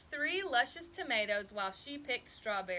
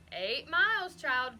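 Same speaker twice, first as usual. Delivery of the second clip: croaking; 4 semitones higher, 6 dB louder than usual. A narrator's reading. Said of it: "Grandma c-, croaked".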